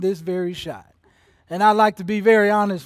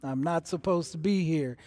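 weary self-talk; 4 semitones lower, 7 dB quieter than usual. Retold or imitated. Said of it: "they are saying to themselves".

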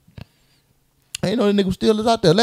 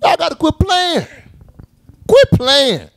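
raised, insistent scolding; emphatic rant; 11 semitones higher, 5 dB louder, slower than usual. Real, not acted. Fan scolding the Oscars loudly. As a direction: tell them to quit playing, louder each time.

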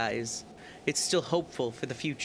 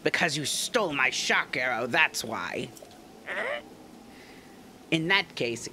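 put-on vengeful young guard, raised pitch, accusing; hammy accusing warrior voice; Zora guard Segan; slower than usual. Segan voiced in game dialogue.

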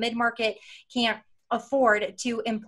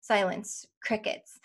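hushed deadpan; 5 dB quieter, slower than usual. Acted. Mimics dead silence after her question.

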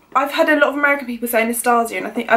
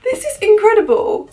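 overwhelmed with excitement; in shock; 8 semitones higher than usual. Real, not acted. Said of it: "I'm actually in shock".

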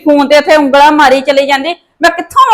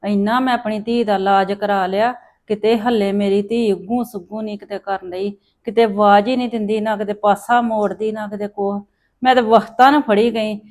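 sad lament; 3 semitones lower, 6 dB quieter than usual. Acted. Mother laments sick daughter alone.

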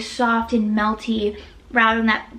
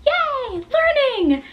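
excited cheer; 13 semitones higher than usual. Pretend. Mock cheer about learning a word.

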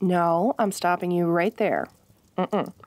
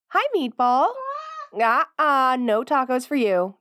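pet talk; 5 semitones higher, slower than usual. Acted. Greeting the dog.

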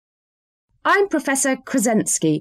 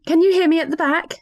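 mock call to the back; 8 semitones higher than usual. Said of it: "Just joking".

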